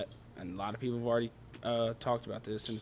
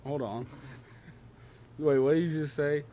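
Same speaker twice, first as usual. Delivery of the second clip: double take; 3 semitones higher, 4 dB louder than usual. Real, not acted. Stops the song, stunned by lyric.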